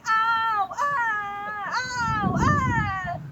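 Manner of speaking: yelling ow. A narrator's reading. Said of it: "something was yelling".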